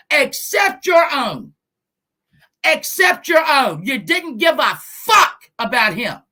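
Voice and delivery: "your" stressed high and loud, slowed down; shouted accusation. Real, not acted. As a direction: hammer "your" in except your own.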